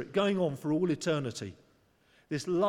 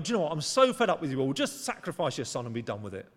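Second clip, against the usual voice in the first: mock angry God; 2 semitones lower, faster than usual. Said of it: "an angry God going".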